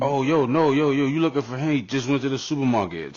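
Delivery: calling out. Acted. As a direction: act out hailing someone on the block. Neighbour calling out to someone searching.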